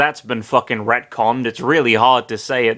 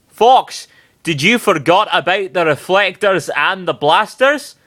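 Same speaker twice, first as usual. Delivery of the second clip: higher, smug question; grinning Falco; 5 semitones higher than usual. Acted. Falco grinning at Fox, smug. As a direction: tease with a sly grin.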